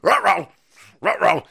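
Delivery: mock cartoon dog uh-oh; loud playful Scooby-Doo; Scooby-Doo ruh-roh. Scooby uh-oh joke.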